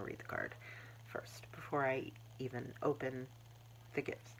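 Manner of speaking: talking between sips of coffee; words around a sip of coffee; while sipping a drink. Real, not acted. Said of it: "I'm sorry I'm drinking so much".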